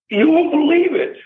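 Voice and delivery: high-pitched you won't believe it; excited disbelief. Real, not acted. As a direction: tease the shock ahead. Building to outrage.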